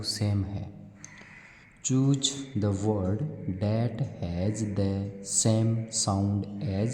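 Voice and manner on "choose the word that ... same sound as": very slow, deliberate English read; slow classroom read-aloud; reading a question aloud. Acted. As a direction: read the worksheet question word by word for children. Reads worksheet question slowly.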